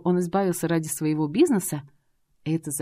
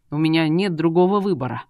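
loud insistence; 6 dB louder than usual. Acted. Dragon insists to wife.

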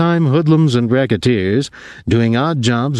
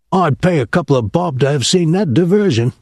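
higher, amused scoff; scoffing sailor; 7 semitones higher than usual. A narrator's reading. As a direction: laugh it off with a scoff. Pinky scoffs.

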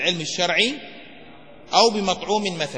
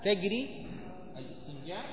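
slow dictation; 15 dB quieter than usual. Shown as a demonstration. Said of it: "نكتب العبارة هذه".

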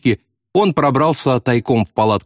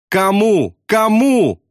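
high, urgent shouted question; yelling; 10 semitones higher, much slower than usual. A narrator's reading. Bombardier to sobbing pilot, yelling high. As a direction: cry it out high, twice. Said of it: "заорал Яссарян".

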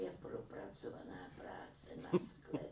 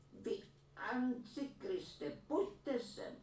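higher, louder summons; calling out; 5 dB louder, much slower than usual. A narrator's reading. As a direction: call the rascal over. Calling Bucifal in. (hlasité přivolání syna)

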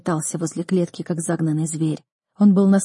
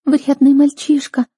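put-on high, louder girl's voice, teasing through tears; through sobs; 7 semitones higher, 6 dB louder than usual. A narrator's reading. Sister answers her childhood friend, high and tearful. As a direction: tease him while crying. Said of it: "сквозь рыдания".

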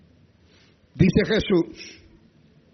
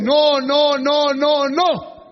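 higher, loud stubborn no's; stubborn husband refusing; 7 semitones higher, 4 dB louder, much slower than usual. Retold or imitated. Pastor imitating a husband who refuses, loud and stubborn. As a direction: play the mule who won't budge.

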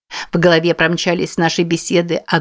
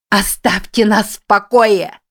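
higher, slow shout begging to be left alone; отчаянный протяжный крик; desperate shout; 4 semitones higher, slower than usual. Acted. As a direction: drag the cry out in desperation. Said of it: "закричала я".

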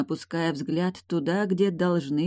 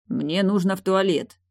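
plain reading voice

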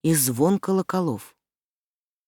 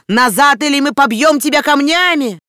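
loud, much higher menacing yell; crowd shouting; 9 semitones higher, 7 dB louder than usual. A narrator's reading. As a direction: threaten to stone her. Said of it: "закричала толпа".

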